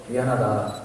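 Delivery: low, understated apology; tender apology. Retold or imitated. Student hugging the man he resented, tenderly sorry. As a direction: apologise gently, voice dropped. Retold apology while embracing.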